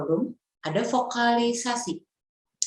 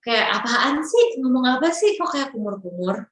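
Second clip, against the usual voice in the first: mock annoyed listener; 4 semitones higher than usual. Listener complaining about a mumbling speaker, mild mock annoyance. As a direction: grumble like a confused listener. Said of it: "audience mocks mumbling speaker".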